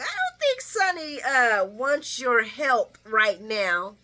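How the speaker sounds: lightly voiced Ava, cool and slow; Ava's reply. Vlogger imitating Ava's cool put-down. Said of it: "Ava's like".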